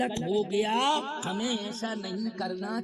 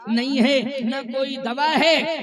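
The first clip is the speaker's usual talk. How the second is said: emphatic refusal; 6 dB louder than usual. Retold or imitated. Ashwini Kumar tells Indra no cure exists, emphatic refusal. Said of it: "Ashwini Kumar ने कहा".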